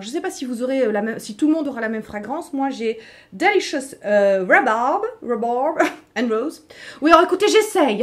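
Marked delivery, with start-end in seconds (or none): 3.3-6.7 slow, playful English accent from a French speaker; hammed-up English accent on the scent name; attempted English accent. Shown as a demonstration. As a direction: try out an English accent, laughing at yourself. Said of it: "j'essaye l'accent anglais".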